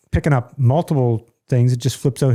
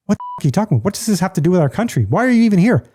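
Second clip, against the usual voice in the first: mock rant; 7 semitones higher than usual. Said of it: "that's the rant we get into".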